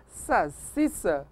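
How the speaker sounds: "salsicha" said as sa-SEE-sa; very slow "salsicha" with only S sounds; common mispronunciation. Shown as a demonstration. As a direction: drop the L and turn SH into S in "salsicha". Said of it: "como as pessoas geralmente falam".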